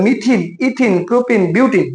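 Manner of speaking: "ইথিন, প্রোপিন, বিউটিন" each ending in an "ee-n" sound. Shown as a demonstration. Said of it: "অ্যালকেনের ক্ষেত্রে উচ্চারণ করতে হয়". ("ইথিন, প্রোপিন, বিউটিন"-এর শেষে স্পষ্ট "ইন" উচ্চারণ)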